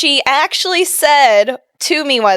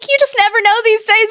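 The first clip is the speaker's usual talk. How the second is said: lady voice; 12 semitones higher than usual. Retold or imitated. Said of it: "She's like".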